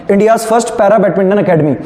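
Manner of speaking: slow, word by word dictation; dictating. Shown as a demonstration. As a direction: spell it out slowly for note-taking. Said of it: "लिखिए भारत की प्रथम para badminton अकादमी". (धीरे-धीरे बोलकर लिखवाना)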